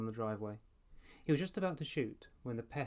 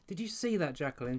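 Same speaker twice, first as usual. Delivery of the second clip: high, louder gloating cry; gleeful cry; 5 semitones higher, 4 dB louder than usual. A narrator's reading. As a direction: crow over the miss to an invisible friend. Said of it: "she cried".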